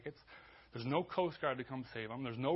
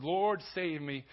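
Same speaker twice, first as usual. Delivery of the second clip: raised, louder cry to the Lord; loud, drawn-out read plea; 3 semitones higher, 6 dB louder, much slower than usual. Acted. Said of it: "he cried out to the Lord".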